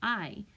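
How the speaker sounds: "I" said as the long aɪ of kite; long i sound. Shown as a demonstration. Teacher showing kids the long vowel. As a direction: say "I" as its own name, aɪ. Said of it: "the I is going to make the long I sound".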